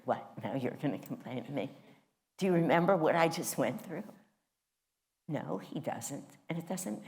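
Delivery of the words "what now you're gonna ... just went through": hammed-up Jewish accent, fast and louder at the end; playful Jewish-accent complaint, quick and louder; mock Jewish accent. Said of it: "even that accent".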